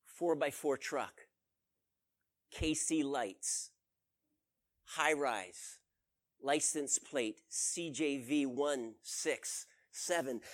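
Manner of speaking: slow, soft mumble, each item spaced out; a guide murmuring what he reads from the ground, slow and soft mumbling. Acted. Guide listening to the ground, mumbling slowly and softly. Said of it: "he could hear him mumbling".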